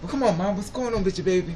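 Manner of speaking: put-on sweet-talking young guy. Contrasting how old and young men talk, voicing a young guy; imitating a young guy. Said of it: "he seems like".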